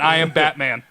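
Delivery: hammed-up Austrian action-star impression; mock a thick Austrian accent; Arnold Schwarzenegger. Co-host teases host's impression, mock Arnold Schwarzenegger voice. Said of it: "you're like Arnold Schwarzenegger saying".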